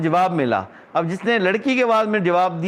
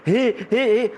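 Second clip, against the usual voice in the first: imitated "hee hee", pitched up; mock laughter; 5 semitones higher, slower than usual. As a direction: mimic the laugh heard behind. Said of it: "اس کی آواز آ رہی ہے حسنے کی". (ہنسی کی نقل، ہی ہی)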